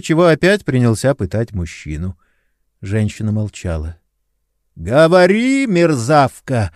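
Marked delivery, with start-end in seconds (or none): 4.8-6.7 louder, higher barked order, out of breath; a hint of panting in a loud command. A narrator's reading. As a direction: order her while puffing from exertion. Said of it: "пыхтя приказывал Лиане".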